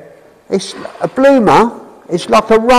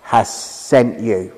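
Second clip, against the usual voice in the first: voice of God; 10 semitones lower, much slower than usual. Acted. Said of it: "And God says".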